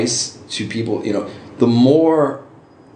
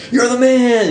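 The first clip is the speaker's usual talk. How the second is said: higher, louder mock yell of praise; imitated yell; 5 dB louder than usual. Guys at the party praising the costume, mock yell. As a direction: cheer him on like a partygoer. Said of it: "guys would yell".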